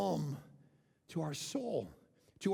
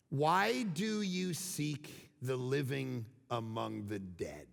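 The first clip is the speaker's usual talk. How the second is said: slow, lower, grand pronouncement; dramatic delivery; 9 semitones lower, much slower than usual. Acted. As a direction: let the line land like a mic drop. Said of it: "Listen to this line, it's gold".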